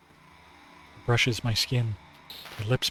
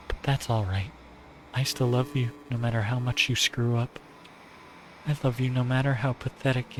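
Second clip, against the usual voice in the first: lightly voiced adoring yandere girl; tender but possessive; Nagi voice. Nagi's love confession.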